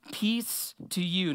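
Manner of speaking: slow, gentle "Peace to you" with each word drawn out; slow calm greeting. Acted. Jesus calming his frightened disciples, slow and gentle. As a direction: lay the words down slowly and calmly.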